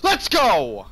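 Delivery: high, fast hyped yell; excited shouting. Real, not acted. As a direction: shout it to your team. Excited team push.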